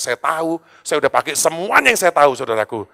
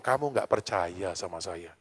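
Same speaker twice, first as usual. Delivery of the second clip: soft, slow, lower voice of God; 6 semitones lower, 10 dB quieter, slower than usual. Retold or imitated. God gently rebuking the sick pastor, soft slow voice. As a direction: speak it gently and slowly, as God would. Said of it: "Tapi Tuhan ngomong".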